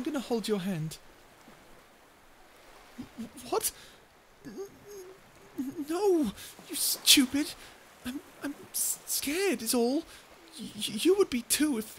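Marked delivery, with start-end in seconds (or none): 3.2-7.5 higher, louder stammering tsundere snap; flustered outburst. Acted. Flustered denial of holding hands. 8.0-12.0 defensive protest. Acted. Defensive about being scared.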